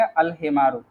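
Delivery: अल हिमारू with the ल clearly sounded; Arabic pronunciation. Shown as a demonstration. Teacher models the sounded ल in अल हिमारू. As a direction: pronounce the ल fully in अल हिमारू. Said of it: "इसमें अल पढ़ रहे हैं".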